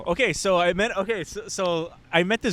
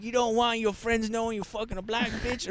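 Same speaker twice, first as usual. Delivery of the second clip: put-on accusing girl; 6 semitones higher, 4 dB quieter than usual. Voices drunk girl's accusation.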